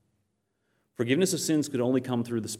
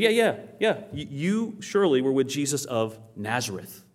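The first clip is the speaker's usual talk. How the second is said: put-on servant girl; 2 semitones higher than usual. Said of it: "She said".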